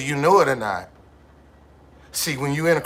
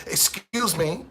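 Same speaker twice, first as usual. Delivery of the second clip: mock polite; slower than usual. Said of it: "I can't talk to them".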